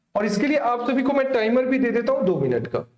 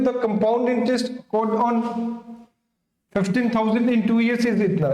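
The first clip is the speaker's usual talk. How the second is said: reading each word out very slowly; slow question read; much slower than usual. Shown as a demonstration. Teacher reads the question aloud to students, very slowly. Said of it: "question पढ़ते हैं".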